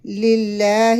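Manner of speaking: للہ said light and thin; slow, light للہ; thin lillah. Shown as a demonstration. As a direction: read للہ with a fine lam. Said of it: "اسم جلالہ کو باریک پڑھیں گے".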